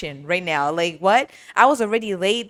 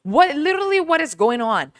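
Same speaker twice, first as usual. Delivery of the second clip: retold confusion; 7 semitones higher, 4 dB louder than usual. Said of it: "I'm just like".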